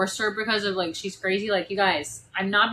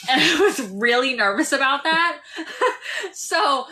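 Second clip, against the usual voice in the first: laughing; 6 semitones higher, 4 dB louder than usual. Real, not acted. Laughing at her own joke.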